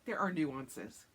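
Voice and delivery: slow, drawn-out mock serious; mock solemn husband. Husband defending his games, slow mock-solemn tone. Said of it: "And he's just like".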